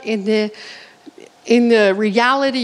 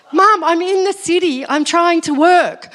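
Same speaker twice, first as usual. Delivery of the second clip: exasperated son; 5 semitones higher than usual. Retold or imitated. Busy son protests to mum.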